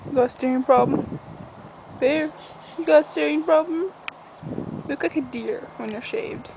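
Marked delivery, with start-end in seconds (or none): 2.0-3.9 higher-pitched challenge to the dog; mock confrontation. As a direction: playfully confront a pet, pitched up. Challenges her dog a second time.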